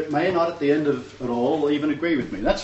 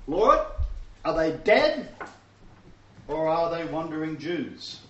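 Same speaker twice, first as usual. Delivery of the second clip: mock prayer; 3 semitones higher than usual. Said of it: "I throw it back into his court".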